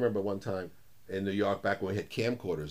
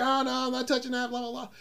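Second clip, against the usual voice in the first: mock whiny refusal; 12 semitones higher than usual. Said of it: "I was like".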